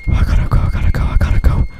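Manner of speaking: panicked, loud, breathless fleeing; scared horror game streamer. Real, not acted. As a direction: yell it out while running for your life.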